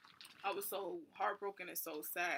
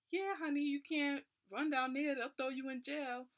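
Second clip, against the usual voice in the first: higher, louder, sugary airport worker; sweet airport lady; 6 semitones higher, 4 dB louder than usual. Retold or imitated. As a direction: coo it like a kind older lady calling someone honey.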